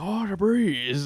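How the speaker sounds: imitating an Asian man's accent, savouring the breeze; mock Asian accent. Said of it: "he's strong Asian accent".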